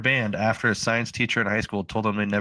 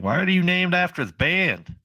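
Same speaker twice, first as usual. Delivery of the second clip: imitating mockers; 8 semitones higher than usual. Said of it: "everyone's like".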